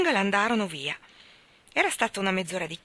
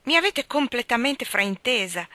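high, loud "Oh" bursting out, then eager protest; dismayed exclaim; 5 semitones higher, 4 dB louder than usual. Acted. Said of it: "esclamò".

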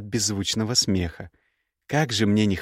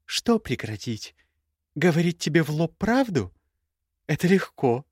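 exclaiming; 7 semitones higher than usual. Acted. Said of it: "воскликнула она".

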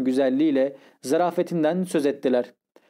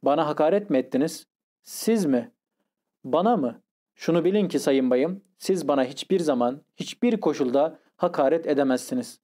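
scornful indignation. Acted. Zverkov scorns the narrator's apology.

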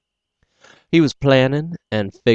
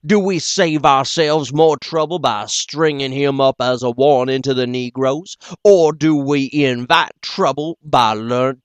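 angry mob leader; 4 semitones higher, 4 dB louder than usual. Acted. Buck Hightower's angry speech.

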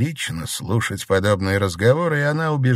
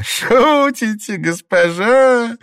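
slow, much higher, laughing question; 14 semitones higher, 6 dB louder, much slower than usual. A narrator's reading. Old Liu laughing at the mistress's offer. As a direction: tease her through a laugh. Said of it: "смеясь".

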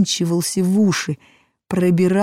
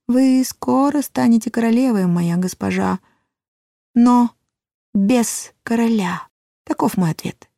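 dwarf voice; 5 semitones higher than usual. A narrator's reading. Dwarf prophecy.

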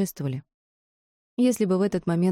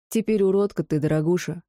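hoarse mocking laugh-talk. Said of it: "хрипло захохотал мужчина".

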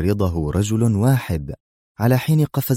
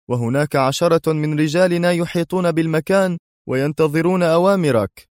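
higher, firm officer's report; firm Dwight; 10 semitones higher than usual. Acted. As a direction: report briskly to the general. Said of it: "أجابه دوايت في حزم". (ضابط يقدم تقريره بحزم)

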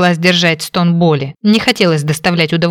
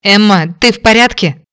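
anxious, raised call; worried; 3 semitones higher, 4 dB louder than usual. Acted. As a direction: call out fearing the worst. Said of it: "обеспокоенный голос Кейна".

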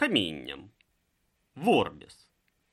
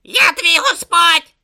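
loud, slow, high-pitched outburst; indignant shout; 12 dB louder, slower than usual. A narrator's reading. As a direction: proclaim it furiously, drawn out and loud. Om asserts authority in quarrel.

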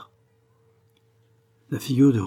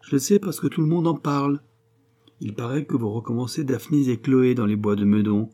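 lightly voiced, teasing man about town; a touch of sarcasm; mocking friend; 4 semitones higher than usual. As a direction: needle a lovestruck friend, animated.

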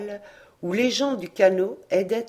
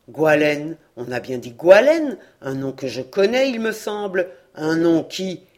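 anxious priest; 7 dB louder than usual. A narrator's reading.

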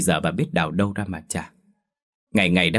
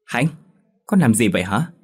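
alarmed mother; 3 semitones higher, 4 dB louder than usual. Acted. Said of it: "Bà hoảng hốt".

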